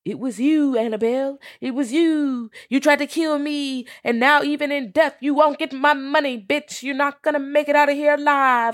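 high, loud ghostly accusation; disembodied skeleton voice. Acted. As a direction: wail it like a vengeful talking skeleton, ending in a mock laugh. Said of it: "with a disembodied voice".

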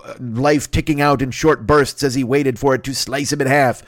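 mock-grand gothic narration, stretched out slowly on tick tock; playing Edgar Allan Poe as a florid narrator; dramatic storyteller. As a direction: read it like a hammy old horror tale. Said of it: "then he's like".

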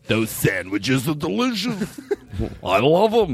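a light put-on voice, slow; lightly voiced food critic; Merrill Schindler. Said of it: "sort of like Merrill Schindler".

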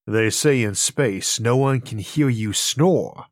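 slow, ominous movie trailer read; horror trailer voice. Pretend. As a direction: drag it out like a sci-fi horror teaser. Parody of movie tagline.

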